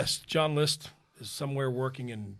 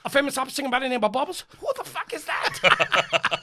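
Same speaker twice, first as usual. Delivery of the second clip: mocking husband; 10 semitones higher, 5 dB louder than usual.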